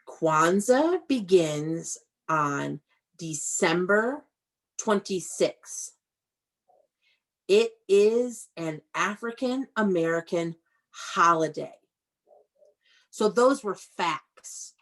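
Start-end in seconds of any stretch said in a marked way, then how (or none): 0.1-11.7 reading aloud. Acted. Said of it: "I'm gonna read".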